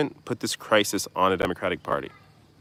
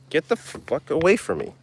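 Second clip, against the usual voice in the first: high-pitched startled swearing at a bee; alarmed; 9 semitones higher than usual. Real, not acted. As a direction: shoo it away in real alarm. Swatting away a nearby bee.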